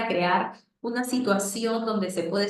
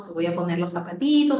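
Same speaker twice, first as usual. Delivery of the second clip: diminutive take; 4 dB louder than usual. Shown as a demonstration. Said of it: "perdón, nada, nunca en diminutivo".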